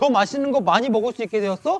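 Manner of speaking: high, loud taunting voice. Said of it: "세상은 우리에게 이렇게 막 속삭이기 시작해요".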